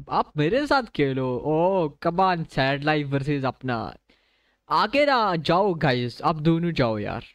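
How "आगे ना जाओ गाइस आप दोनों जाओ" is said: higher, louder, slowed "आगे ना जाओ"; urgent call out. Real, not acted. Streamer calling to players in the match, loud and slow.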